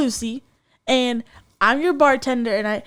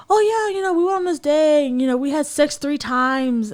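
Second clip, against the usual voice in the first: bragging sleazeball; 5 semitones higher than usual. Retold or imitated. Radio host mimicking a date's boast, mock bragging. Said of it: "a sleazeball on, on his end".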